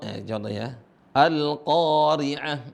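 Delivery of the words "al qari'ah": "qari'ah" with a long held a after q; long vowel. Shown as a demonstration. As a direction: stretch the "qaa" slowly. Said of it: "kalau mau panjang". ("qari'ah" dengan qa dibaca panjang)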